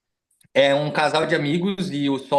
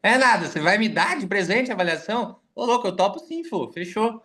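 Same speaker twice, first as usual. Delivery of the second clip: excited friends; 5 semitones higher than usual. Retold or imitated. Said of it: "eles falaram assim".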